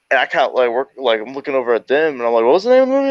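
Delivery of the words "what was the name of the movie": high, feigned innocent question; mock innocent. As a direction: play dumb, pitched way up. Acting innocent in retold prank.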